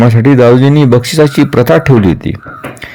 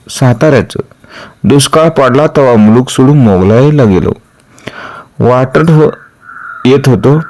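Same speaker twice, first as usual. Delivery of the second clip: lightly voiced villager, slightly raised pitch; rustic villager Bhima; 3 semitones higher than usual. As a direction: tell your tale simply, in short bursts to the king. Villager Bhima tells his story. (गावरान भीमा, किंचित चढ्या सुरात)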